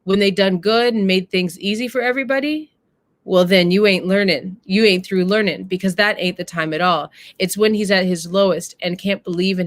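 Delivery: a hint of the wise mother, earnest and measured; mama's speech. Mama lecturing her daughter about love, gently earnest. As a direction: read it as the mother teaching her son's sister. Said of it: "And the mama says this".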